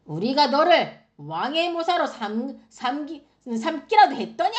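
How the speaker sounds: indignant king, rising to a loud challenge; acted anger. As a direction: mildly play the angered king rebuking a prophet. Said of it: "화를 내기 시작한 거예요". (점점 언성을 높이며 화내는 왕 흉내)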